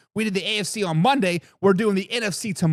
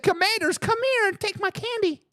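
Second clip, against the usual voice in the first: mock meek surrender; 10 semitones higher than usual. Mocking the beaten Lions.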